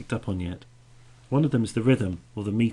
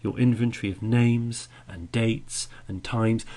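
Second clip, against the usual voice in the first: "names", "dates" and "times" each given a louder beat; stress on listed nouns; 6 dB louder than usual. Shown as a demonstration. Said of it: "She's stressing those".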